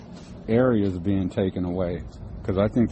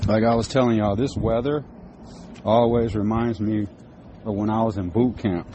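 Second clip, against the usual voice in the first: talking with cigarette in mouth; muffled around a cigarette; mouth full. Real, not acted. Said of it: "Sorry, I got a cigarette in my mouth".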